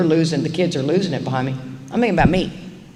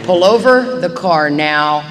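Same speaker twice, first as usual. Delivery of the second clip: angry demand; 4 dB louder, slower than usual. Acted. Acted mad passenger demanding out.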